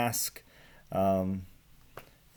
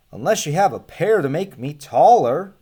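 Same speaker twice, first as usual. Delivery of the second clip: much higher, put-upon little man brushing him off; grumpy short man; 5 semitones higher, 8 dB louder than usual. Acted. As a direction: squeak it out like a small fussy man. Short man answers shoemaker.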